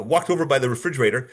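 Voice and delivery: hesitant, stalling on fillers mid-alibi; change of flow. Shown as a demonstration. Suspect recounting last night, flow breaking into hesitation. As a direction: falter with um and uh, then carry on. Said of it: "I had that change of flow".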